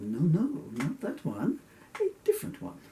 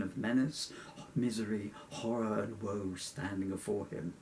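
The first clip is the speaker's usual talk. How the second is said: lightly theatrical storyteller reading; measured book-reading delivery; story narration. Acted. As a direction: read it out with mock-gothic gravity. Reads own story aloud.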